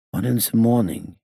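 put-on high foreign-accented echo, TH said as Z; dazed repetition. A narrator's reading. Gangster echoing the inspector's answer, high dazed accented voice. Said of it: "he repeated".

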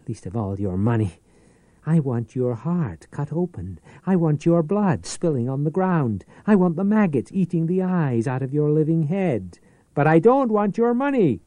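building from steady to loud, high fury; mounting rage. Acted. The pawnbroker rages at his enemy, rising to a furious shout. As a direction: let the hatred climb to a cry.

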